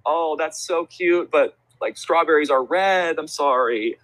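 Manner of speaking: high, slow cooing, re-enacted; gentle sympathy. Host corrects a three-year-old's answer, gently apologetic.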